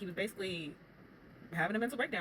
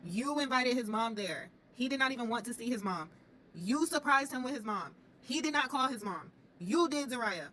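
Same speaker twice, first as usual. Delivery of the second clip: louder, slow, pointed scolding; exasperated rant at Zariah; 5 semitones higher, 6 dB louder than usual. Acted. Vlogger scolding Zariah on the show, loud and exasperated. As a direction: call her out, word by word.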